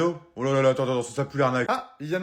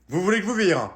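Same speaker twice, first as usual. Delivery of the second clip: louder and higher, a sharper repeat of the threat; 4 semitones higher, 5 dB louder than usual. Acted. Librarian repeating her threat to kick the kids out, louder. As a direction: raise the voice on the repeat.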